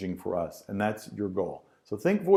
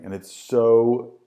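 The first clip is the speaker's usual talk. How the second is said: drawn-out bored; 6 dB louder, slower than usual. Shown as a demonstration. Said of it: "and it's just so".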